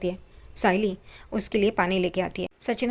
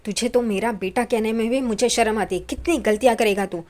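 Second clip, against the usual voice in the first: father's angry shout, retold; retold loud scolding; 2 semitones higher, 4 dB louder than usual. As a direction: scold him loudly, as if retelling a father's outburst. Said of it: "Paresh ज़ोर से चिल्लाने लगते हैं".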